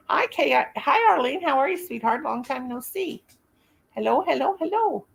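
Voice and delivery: high, bright hello to new viewers; cheery greeting. Real, not acted. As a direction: welcome them in with a lift. Greeting viewers joining stream.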